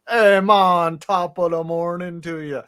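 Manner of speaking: mock Jamaican accent. Shown as a demonstration. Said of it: "an Jamaican guy saying".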